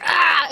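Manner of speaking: mild mock scream; mock dog freakout yell. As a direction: squeak out the dog's panic. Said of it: "freaked the fuck out and was like".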